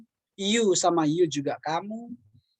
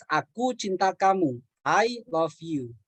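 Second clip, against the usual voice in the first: slow repeat; slower than usual. Shown as a demonstration. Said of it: "Contoh saya katakan".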